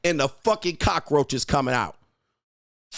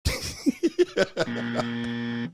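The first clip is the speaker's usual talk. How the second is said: big real laugh; laughing hard; 6 semitones lower, 5 dB quieter than usual. Real, not acted. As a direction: burst out laughing at his own line. Laughs at own insult.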